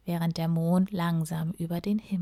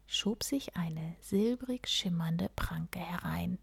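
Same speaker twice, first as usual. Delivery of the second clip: hushed bedtime storytelling; story narration. A narrator's reading.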